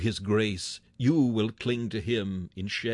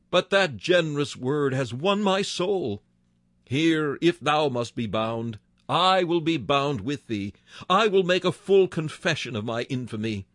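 a hint of a repentant Judas crying out, raised; pleading confession; 3 semitones higher than usual. Preacher voicing Judas confessing to his Lord, pleading. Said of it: "he would have cried".

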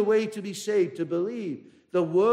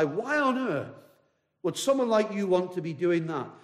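mildly scornful question, pitched up at the start. Retold or imitated. Man questioning a little girl reading her Bible, mildly scornful. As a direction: retell it with a touch of scorn. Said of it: "the man said scornfully in reply".

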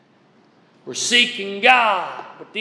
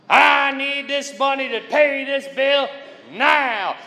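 demanding prayer; 5 semitones higher than usual. Retold or imitated. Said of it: "make demands".

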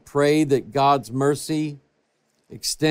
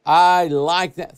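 emphatic; 3 semitones higher, 5 dB louder, slower than usual. Real, not acted. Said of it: "savoring the verse".

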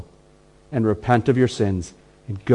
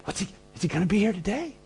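eager churchgoer; 8 semitones higher, 6 dB quieter, faster than usual. Retold or imitated. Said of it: "And so you go".

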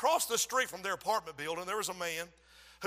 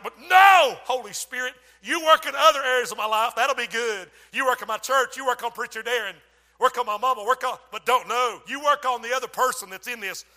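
pleading protest; 2 semitones higher, 9 dB louder than usual. Acted. Bargaining with the Holy Spirit.

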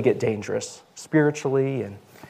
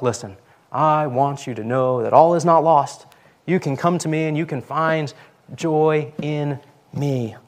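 earnest emphasis, slowing right down at the end; emphatic; 3 semitones higher than usual. Acted. Quoting God's call to the discouraged, emphatic. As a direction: press each word home, stretching the last few. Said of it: "He's pretty emphatic".

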